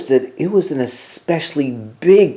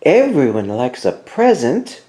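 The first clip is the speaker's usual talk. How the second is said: Mouse voice; 6 semitones higher than usual. A narrator's reading. Mouse coaxing Bear.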